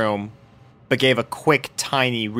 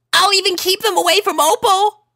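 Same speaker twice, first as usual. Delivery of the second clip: much higher, desperate plea; pleading filly; 3 dB louder than usual. A narrator's reading. Sweetie Belle pleading on her knees. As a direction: beg with everything. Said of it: "pleaded Sweetie Belle".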